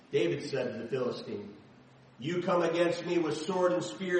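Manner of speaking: lively, dramatic Bible reading; animated scripture narration with voiced characters. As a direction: read the passage out like a storyteller to the congregation. Reading the David and Goliath passage.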